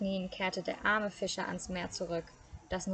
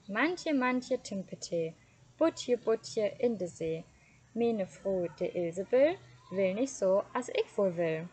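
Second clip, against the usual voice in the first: called out over the sea, louder; calling out a rhyme; 4 dB louder than usual. Acted. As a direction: call the rhyme to the fish across the water. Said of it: "und rief".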